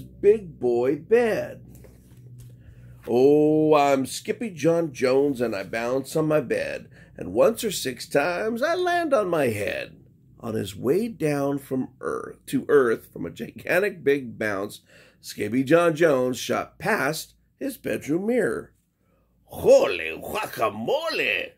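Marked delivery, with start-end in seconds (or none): 3.1-10.0 lightly voiced playful kitten chant; bouncy kitten. Skippy chanting while bouncing on his bed. 19.5-21.5 kitten voice, startled; surprised Skippy. Acted. Skippy startled by his reflection. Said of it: "said Skippy John Jones".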